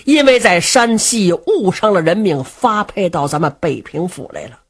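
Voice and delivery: lightly voiced fat sworn brother, begging earnestly; fat brother Du Cha pleading. Du Cha begs Luo Cheng to ask the prince, pleading. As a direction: plead with your young brother, voice rising.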